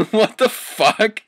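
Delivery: high, slow put-on shocked voice; mock shocked voice. Reading the fanfic aloud, a squeaky put-on shocked voice. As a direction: stretch it in a silly squeaky voice.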